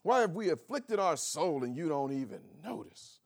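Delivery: mock indignant question rising at the end; dramatic complaint. Mocking fasting people who complain to God, rising whine. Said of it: "I mean, what an attitude".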